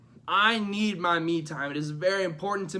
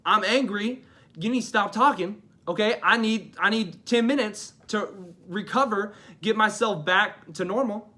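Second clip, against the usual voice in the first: cranky; 3 semitones higher, 4 dB louder than usual. Acted. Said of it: "When I'm cranky, I'm like".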